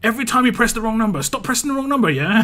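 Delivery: fast, high, loud scolding; retold ranting shout. Woken resident scolding bell ringers, frantic angry shout. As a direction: rant down at them like a nutcase. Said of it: "just shouting on my balcony like a nutcase".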